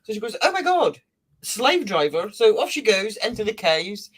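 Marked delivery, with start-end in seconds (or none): 0.4-2.3 high mock complaint; exasperated. Sun Mother complaining about the father, high mock complaint. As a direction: grumble at the boss.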